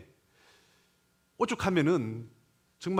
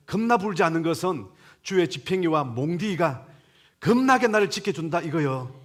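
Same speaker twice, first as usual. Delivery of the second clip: loud, higher-pitched Jeolla dialect reading; 4 semitones higher, 5 dB louder than usual. Shown as a demonstration. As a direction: recite it in a hearty, emphatic Jeolla accent. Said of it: "오늘은 전라도 버전으로".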